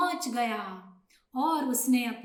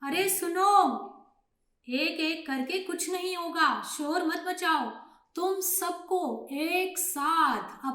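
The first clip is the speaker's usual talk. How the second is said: higher-pitched, emphatic address; storybook leader rallying the flock; old pigeon instructing; 4 semitones higher than usual. Acted. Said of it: "तो बूढ़ा कबूतर बोला".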